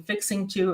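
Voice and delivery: fixing to said in full; both words of fixing to spoken out; full form. Shown as a demonstration. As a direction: say fixing to without shortening. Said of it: "shorten our words a lot".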